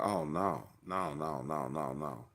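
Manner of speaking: low, soft string of no's; quiet dread. Retold or imitated. Dread at the growling tornado.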